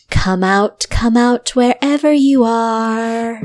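slow, taunting call out of darkness; dark whisper behind you. Acted. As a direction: boss calling from the dark. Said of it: "the voice of your boss".

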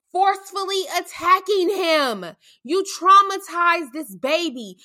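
angry. Real, not acted. Angry rant builds.

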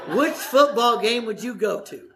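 asked through a chuckle; laughing. Real, not acted. Preacher teasing the congregation about rival football, laughing. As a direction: grin through the question, laughing at your own joke.

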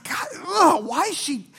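dad griping from his chair, hammed-up annoyance; grumpy dad. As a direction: imitate the ticked-off dad. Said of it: "He's like".

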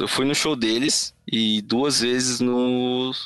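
slow, spaced-out and losing the thread; stoned. Real, not acted. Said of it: "eu tô muito brisado hoje".

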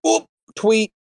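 mock announcement. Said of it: "And then they go".

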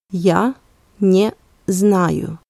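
Я, pause, then не знаю; word by word. Shown as a demonstration. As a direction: split "Я" off with a clear pause before "не знаю". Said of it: "let's repeat both sentences one more time".

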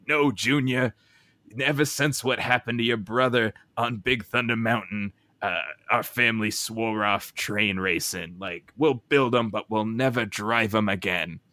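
lightly voiced stern cowboy dad; a hint of an old western father. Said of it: "but more cowboy voices and less, uh, my voice".

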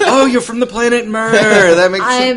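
high, loud laughing quip. Real, not acted. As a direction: squeal it through laughter.

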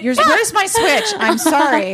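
high, slow, laughing mock ghost; a mischievous ghost hunting for her Switch; playful ghost voice. Telling friends what the inn ghost would say, in a high teasing ghost voice. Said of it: "She would be like".

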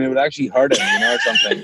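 laughing through the punchline. Real, not acted. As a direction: giggle out the end of the joke, pitch jumping up. Joking about throwing Bible at demon.

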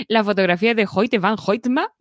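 Swedish names said in a mock Swedish accent; hammy Swedish accent on the names. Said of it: "a ver qué tal es mi acento sueco".

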